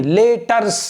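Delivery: "letters" with a stretched "lay" start; wrong pronunciation. Shown as a demonstration. Teacher repeating the error in "letters", wrong pronunciation. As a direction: mispronounce "letters" as "lay-tars". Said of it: "letters नहीं".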